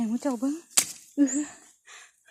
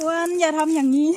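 louder, firm telling-off; loud scolding; 10 dB louder than usual. Real, not acted. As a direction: call out a loud rebuke to Wan. Scolding companion named Wan.

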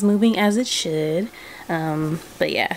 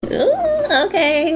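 laughing; 12 semitones higher, 3 dB louder, much slower than usual. Real, not acted. Bursts out laughing on return.

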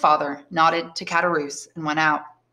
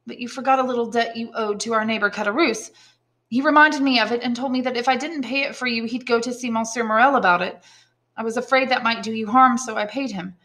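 a little higher, apologetic explanation; gently confess, lightly in an old father's voice; lightly voiced old father; 5 semitones higher than usual. Father explains a paid debt to son, mildly apologetic.

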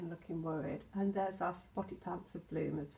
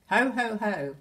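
Santa laugh; 2 semitones higher, 10 dB louder than usual. Acted. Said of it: "laughs Santa".

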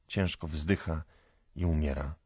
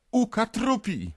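high, drawn-out cry; crowd calling out; 4 dB louder than usual. A narrator's reading. Onlookers crying out as he lifts the shaft, calling. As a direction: call it out like an alarmed onlooker. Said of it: "wołają wszyscy".

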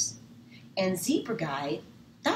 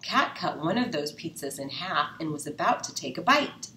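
ordinary delivery, nothing marked

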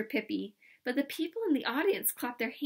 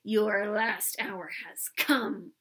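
slow stage-villain menace; lightly hissed, drawn-out villain line; hissed threat; much slower than usual. Acted. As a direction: threaten slowly like a melodrama villain. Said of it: "he hissed".

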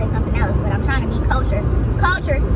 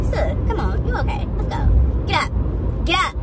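stern coaxing; 4 semitones higher than usual. Retold or imitated. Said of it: "put that stern "get up" in your voice".

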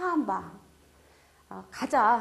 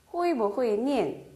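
each syllable spelled out slowly; slow model reading; much slower than usual. Shown as a demonstration. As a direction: read it slowly for learners. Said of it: "긍정 부정으로". (천천히 또박또박 읽는 예문)

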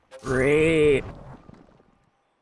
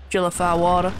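American accent slipping southern, "water" losing its final r; accent slip. Real, not acted. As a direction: let the accent drift southern on "Jellify water". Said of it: "Oh god, the accent changed".

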